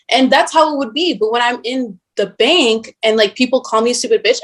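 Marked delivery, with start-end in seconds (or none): none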